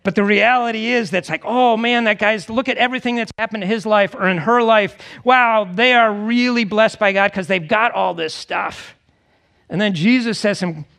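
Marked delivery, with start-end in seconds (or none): 1.5-9.0 higher, mock-admiring gush; impressed onlooker. Preacher voicing onlookers who admire the rich, impressed. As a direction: play someone marvelling at another's good fortune.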